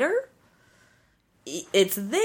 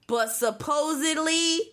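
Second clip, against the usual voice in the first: incredulous voice; slower than usual. Shown as a demonstration. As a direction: lean into disbelief, air quotes. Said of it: "I'm also using my incredulous voice".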